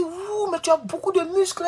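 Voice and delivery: high, admiring mock voice of the lady; quoting the lady. Landlady admiring his muscles, in a high mock coo. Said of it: "Elle dit".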